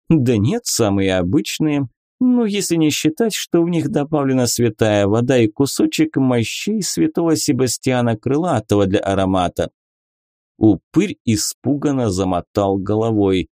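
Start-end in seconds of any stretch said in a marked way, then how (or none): 0.1-9.7 higher, teasing lady; lady inquisitor voice. Acted. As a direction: play a coy, mocking lady. Beatrisa, playful inquisitor lady. (игривая дама-инквизитор)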